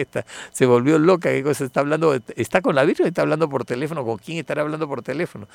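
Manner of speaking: loud, fast, baffled inner voice; wondering aloud who she is calling; puzzled. Retold or imitated. Priest seeing woman phoning the Virgin, baffled and fast.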